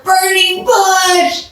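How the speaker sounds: high, very slow bellow; drawn-out bellowed cry. A narrator's reading. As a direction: bellow it out as loud as you can. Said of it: "he bellowed even louder".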